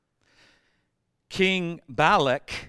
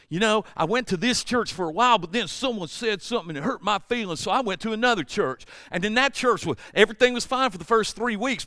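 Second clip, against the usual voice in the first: mock church-hopper; 6 semitones higher, faster than usual.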